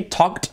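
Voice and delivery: "talked" said "tokt" with silent L; added final T. Shown as a demonstration. Teacher showing a tricky ending, "talked" with final T sound. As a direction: click K into T at the end of "talked". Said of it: "añadir la T allí".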